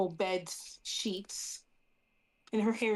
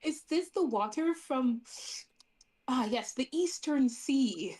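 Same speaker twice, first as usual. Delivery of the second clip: mock connoisseur; 4 semitones higher than usual. Character voiced sampling water.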